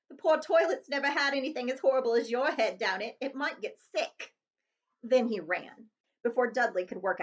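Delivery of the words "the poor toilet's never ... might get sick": sly, mocking retort; a touch of smug teasing; cheeky insult. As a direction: rub it in with relish. Harry insulting Dudley.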